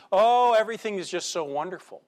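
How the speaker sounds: a long sighing "Oh", everything is just so wonderful, mockingly; mock nostalgia. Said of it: "when we get in the middle of the hardship".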